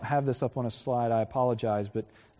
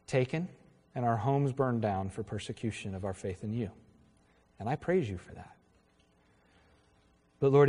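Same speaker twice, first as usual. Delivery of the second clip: earnest prayer. Real, not acted. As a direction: pray over the congregation. Closing prayer.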